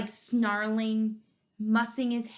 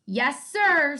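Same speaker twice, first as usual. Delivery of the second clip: eager bunny; 5 semitones higher, 7 dB louder than usual. Acted. Bunny answers orders eagerly.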